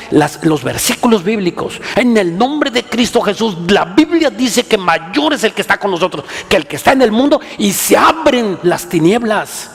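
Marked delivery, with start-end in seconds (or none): 1.9-9.7 voz de predicador que sube con fuerza; preaching at full force. Real, not acted. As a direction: proclama con autoridad, casi gritando al final. Preaching climax. (predicación a todo pulmón)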